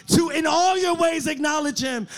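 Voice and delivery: shouted verse. Shown as a demonstration. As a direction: acknowledge him shouted high and loud. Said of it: "loud preached take of the verse".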